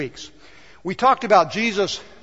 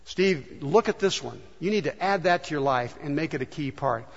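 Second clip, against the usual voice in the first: soft, quiet urging; a hint of God's whisper; softly voicing the Spirit's nudge; gentle inner voice; 4 semitones lower, 7 dB quieter than usual. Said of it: "the Spirit of God help you by speaking".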